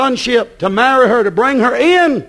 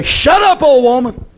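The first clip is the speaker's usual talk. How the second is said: mock rebuke; 3 semitones higher than usual.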